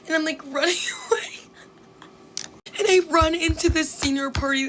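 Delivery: breathy laugh into a whisper, a bit fast. Real, not acted. Recalling running from the party, laughing under breath. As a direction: giggle while sneaking off.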